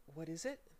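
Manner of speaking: gasped. Acted. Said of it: "gasped Milo".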